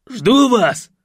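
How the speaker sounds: loud high shout; yelled. Acted. Vasily shouts through the door to hurry. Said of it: "проорал Василий".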